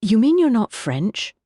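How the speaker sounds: high, loud disbelief; astonished. A narrator's reading. Butler learning the chef isn't French, loud and astonished. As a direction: Kibble gasping out his shock. Kibble's jaw dropped, astonished.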